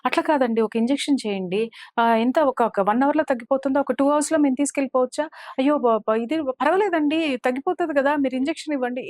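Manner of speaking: mock-anxious begging, voice pushed up high; retold panic. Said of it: "చాలా కంగారు పడిపోయి".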